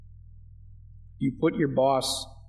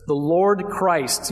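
slow, weighty emphasis on LORD; "Lord" given slow, emphatic weight; stress on LORD; 2 semitones higher, 3 dB louder, much slower than usual. Shown as a demonstration. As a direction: lean hard on "Lord", drawing it out. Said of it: "A little bit more emphatic".

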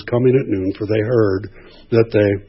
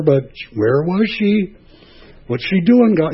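a complaining man pointing at his wife and God; whiny Adam. Retold or imitated. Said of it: "that's what Adam said".

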